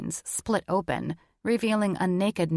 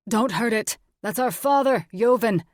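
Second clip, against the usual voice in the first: raised, pleading yell; urgent shout; 4 semitones higher, 5 dB louder than usual. Acted. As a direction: stop him, shouting. Andre stops axe on father.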